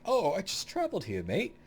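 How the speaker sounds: high-pitched mock British voice; British accent. Mod character who just traveled here, mock British accent. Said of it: "a British guy like".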